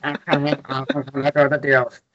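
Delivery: a lightly Smeagol-ish warped voice; mock creepy accent for fun; weird put-on accent. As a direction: put on a silly, odd voice to read the deals. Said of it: "as I do in this accent, this weird".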